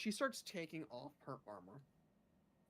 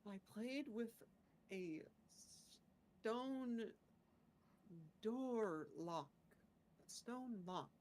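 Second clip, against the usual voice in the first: lightly voiced, slightly higher adventurer; halting adventurer character; 4 semitones higher, slower than usual. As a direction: recount your day piece by piece, pausing between words. Player answers in character as Rakona.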